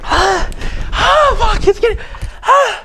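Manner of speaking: high, pained gasps, mouth on fire; mouth burning from spicy food. Real, not acted. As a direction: groan through the burning heat.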